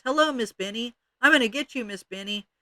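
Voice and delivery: high, loud witchy taunt; shouting. Acted. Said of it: "shouted in her muffled voice".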